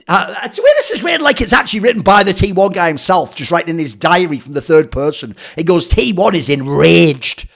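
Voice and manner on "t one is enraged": slow, overdramatic read; mock dramatic reading. Streamer reading the article aloud, slow mock drama. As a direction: drag it out like a melodrama.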